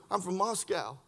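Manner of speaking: low, soft understated reply; quiet revelation. Retold or imitated. Man reveals where he is from, low and quiet. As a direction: drop it softly as a quiet reveal.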